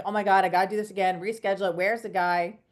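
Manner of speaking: retold flurry of hassle, quick start; accelerated, frazzled. Customer retelling her dread of rescheduling, mildly frazzled and rushed. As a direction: rattle it off, mildly flustered. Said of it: "like, accelerated".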